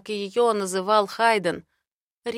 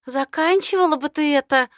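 displeased grumble; 7 semitones higher, 6 dB louder than usual. Acted. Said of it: "недовольно ворчит она".

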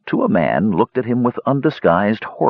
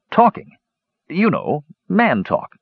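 embarrassed; 9 semitones higher, slower than usual. A narrator's reading. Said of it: "flushing scarlet".

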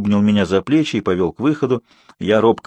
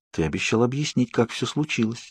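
softer, hesitant reminder; unsure reminder; 8 dB quieter than usual. A narrator's reading. Bella reminds Edward of his promise, unsure. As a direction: remind him without much confidence. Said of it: "напомнила я, но не так уверенно".

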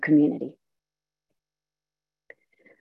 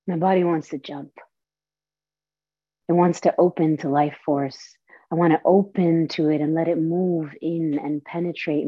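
recited monologue. Acted. Performer reciting her show's closing monologue to the audience, solemn. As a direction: perform the closing lines of your one-woman show. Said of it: "I just recited to you the closing monologue".

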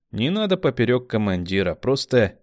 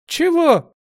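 very high, louder; baffled; 8 dB louder than usual. A narrator's reading. Kamila not hearing commander, high baffled cry. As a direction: yelp in disbelief.

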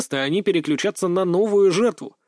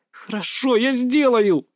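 louder, higher angry snap at the end; angry growl; 8 semitones higher, 3 dB louder, slower than usual. A narrator's reading. Girl giving in to the coach, angry growl. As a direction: spit it out in resentment. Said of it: "зло рыкнула она".

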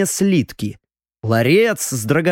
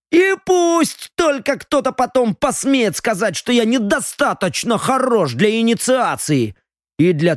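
put-on higher, boastful drunk young noble; tipsy young lord; 6 semitones higher than usual. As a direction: talk like a proud tipsy heir. Drunk viscount dreams aloud.

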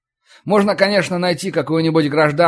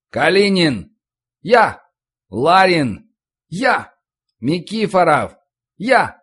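roll call shouts; 3 semitones higher, slower than usual. Acted. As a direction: call the roll across the yard. Roll call on parade ground.

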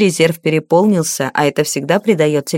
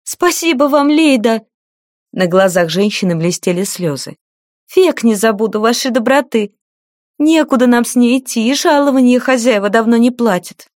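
higher, tearful grateful woman; 6 semitones higher than usual. A narrator's reading. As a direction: thank her with tears close. Grateful maid close to tears.

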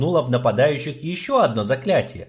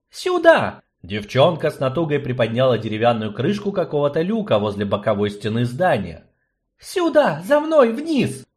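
urgent; 3 semitones higher than usual. Acted. Girl urges escape in a hurry.

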